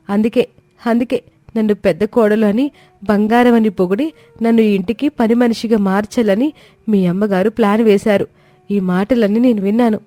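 high, begging to be heard; a frightened bride pleading her case; pleading young wife. Acted. Komali begging her husband to listen, high and pleading. Daughter-in-law reveals plan.

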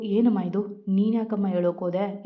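ordinary delivery, nothing marked

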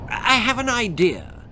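high excited goblin voice; Gum Goblin voice. Acted. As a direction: pitch the goblin up, eager.

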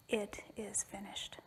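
very soft, slow and solemn; hushed last words. Acted. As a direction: let it out quietly, barely voiced. Quoting the dying son's last words.

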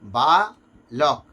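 বা, then লক, with a break between them; each syllable said on its own; split into syllables. Shown as a demonstration. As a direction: break বালক apart as বা and লক. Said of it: "যেমন বালক".

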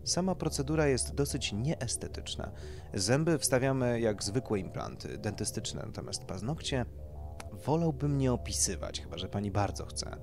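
lightly voiced doctor presenting options; doctor pitching treatments. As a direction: explain it like an eager clinic consultant.

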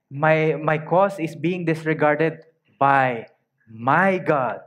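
slow, halting perplexity, mildly voiced; perplexed. Preacher voices the complaint of God's people, perplexed. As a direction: draw out "by my God" in mild puzzlement. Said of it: "A sort of like, um, per-, perplexity".

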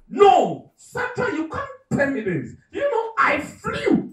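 put-on high-pitched shrieking girl, dragged out at the end; girl's yell. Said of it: "The yell".

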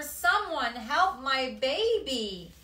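high, loud, frantic cry of a frightened mother; desperate plea. Acted. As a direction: beg for help at the top of your voice. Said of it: "said his mother".

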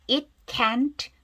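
"It can't" with the final T barely released; weak final T. Shown as a demonstration. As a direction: show how faint the T in "can't" is. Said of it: "트는 아주 약하게 발음하죠". ("can't" 끝의 트를 아주 약하게 발음)

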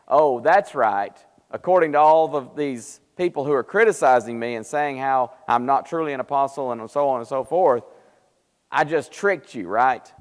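imitated sarcastic admission. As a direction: concede the charge with pointed sarcasm. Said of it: "He's using sarcasm".

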